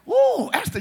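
high swooning ooh; the king charmed by Esther, a high ooh; admiring king. Retold or imitated. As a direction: swoon over her name.

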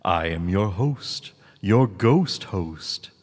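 slow, drawn-out ghost host; hammy haunted ride narrator; cheesy ghost host voice. Pretend. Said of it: "cheesy impressions".

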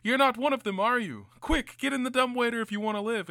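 a nervous man hurrying you in; lightly voiced frantic helper; hushed urgent stranger. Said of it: "He's like".

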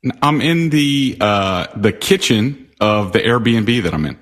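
echoey room sound; echo chamber. Real, not acted. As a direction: voice bouncing off tile walls. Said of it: "You sound like you're in an echo chamber".

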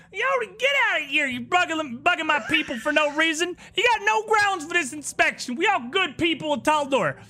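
high, loud furious yelling; angry innkeeper. Acted. Innkeeper shouting at the guards, furious. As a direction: drive the guards out with outrage.

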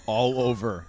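laughing through a mouthful of drink; trying not to spit, giggling; laughing with mouth full. Real, not acted. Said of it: "You almost made me spit my beverage".

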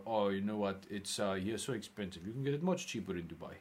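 lightly voiced foreign customer; customer impression. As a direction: act out the stingy customer. Imitating the customer's voice.

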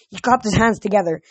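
animated audiobook reading; story narration. A narrator's reading. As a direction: tell the adventure with steady energy.

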